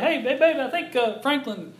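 high, eager hushed call to his wife; high excited aside to babe; excited nudge. Retold or imitated. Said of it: "I was like".

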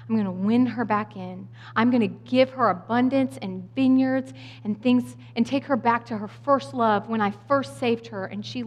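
softening into a gentle promise; relenting God. Retold or imitated. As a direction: imitate wrath giving way to tenderness. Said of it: "he makes an about face".

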